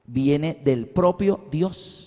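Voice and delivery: slow, deliberate, word by word; slow statement. Shown as a demonstration. Preacher making his point on baptism to the congregation, slow and deliberate. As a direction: state it slowly with spaces between words. Solemn point, then asked back.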